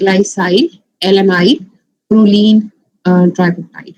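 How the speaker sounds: glycine, alanine said with -yl endings, "glycyl, alanyl"; peptide naming demo. Shown as a demonstration. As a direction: end glycine and alanine in "-yl", proline left whole. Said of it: "हम उसको कैसे pronounce करेंगे".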